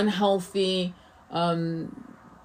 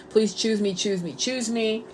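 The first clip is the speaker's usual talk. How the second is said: mock groveling plea; 3 semitones higher, 4 dB quieter than usual. To an ex, a client's imitated groveling plea, mild. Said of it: "They grovel".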